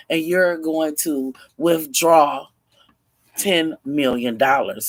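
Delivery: acted irate orders, forceful and loud; irate kidnapper. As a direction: lay down the law to a captive. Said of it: "the man is just irate".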